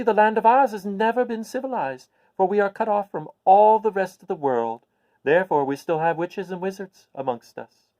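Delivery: put-on a little old witch, pleased to share good news. Witch explains Oz.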